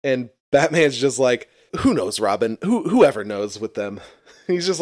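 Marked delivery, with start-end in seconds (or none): 1.8-4.0 mildly exasperated brush-off; annoyed Batman. Retold or imitated. Batman answering Robin about Batgirl, annoyed. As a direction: imitate an irritated superhero dismissing the question. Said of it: "very annoyed".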